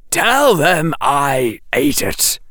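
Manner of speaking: slow, deadpan; lightly voiced sardonic professor; dry Quirrell. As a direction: say it flatly as a joke.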